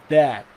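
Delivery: "that" with the final T left unreleased; silent final T. Shown as a demonstration. Teacher showing students "that" without a sounded final T. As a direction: say "that", stopping before the T sounds. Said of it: "a gente não pronuncia o T final".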